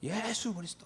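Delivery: high-pitched cry, held back in volume; imitated crowd answer. Youths answering about prisoners, high imitated cry. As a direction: mimic the crowd crying out its answer. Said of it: "이렇게 물어봐요".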